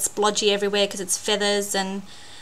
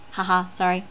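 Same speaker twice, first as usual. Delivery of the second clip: nervous laugh; 3 semitones lower than usual. Real, not acted. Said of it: "I'm in a bit of a strange mood today".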